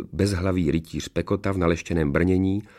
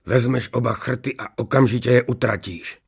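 higher-pitched angry sorcerer; enraged order; 4 semitones higher than usual. A narrator's reading. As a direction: command it in a contained rage. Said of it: "Rumburak zesinal vztekem". (rozzlobený rozkaz)

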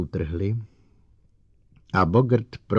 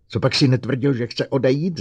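loud, higher furious demand; roaring at the robot; 6 semitones higher, 5 dB louder than usual. A narrator's reading. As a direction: bellow the question at him. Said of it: "zařval Bogert".

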